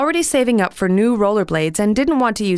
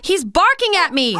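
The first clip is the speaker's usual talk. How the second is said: mild snap; 12 semitones higher than usual. A narrator's reading. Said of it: "she snapped".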